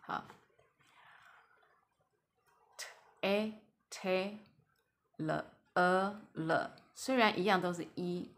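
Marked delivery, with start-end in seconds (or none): 2.8-6.7 slow, sound-by-sound blend of t and a; drawn-out phonics demo of "t a t" and "l e l". Shown as a demonstration. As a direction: sound out "t a t", then "l e l", slowly. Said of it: "前面这个一发a".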